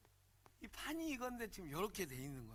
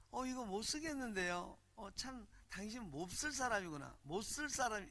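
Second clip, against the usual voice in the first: mock Seoul accent, lightly pitched up; 서울말 흉내; 4 semitones higher than usual. Shown as a demonstration. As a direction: put on polite, soulless Seoul speech. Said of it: "서울 말은 뭐예요?". (맛없는 서울 말투)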